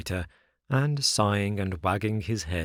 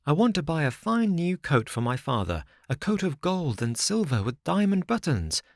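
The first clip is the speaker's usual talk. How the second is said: put-on higher, earnest little wooden boy; eager puppet boy; 4 semitones higher than usual. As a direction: tell it like a proud, worried child. Pinocchio voiced by narrator.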